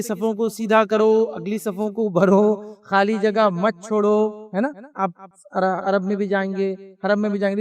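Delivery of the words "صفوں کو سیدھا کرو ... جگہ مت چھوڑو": slow announcement. Retold or imitated. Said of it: "وہ یہ بولتے ہیں".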